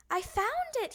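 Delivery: Froggy yelling from inside; yelled. Acted. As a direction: shout it back. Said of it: "he yelled".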